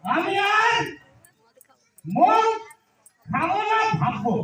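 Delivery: put-on town drunk. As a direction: swear it off then hedge. Drunk mock vow.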